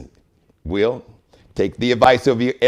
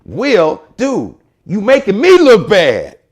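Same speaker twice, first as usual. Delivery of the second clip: imitating Richard Williams; 3 semitones higher, 3 dB louder than usual. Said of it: "He's like".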